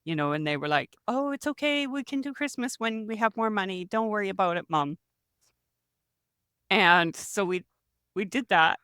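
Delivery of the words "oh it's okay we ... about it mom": higher, lightly voiced kids reassuring; a hint of children comforting mom; kids' voice. Kids voiced reassuring their mother.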